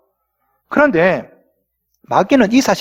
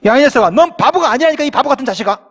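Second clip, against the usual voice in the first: mock angry father; 2 semitones higher than usual. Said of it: "아버지가 화가 났습니다".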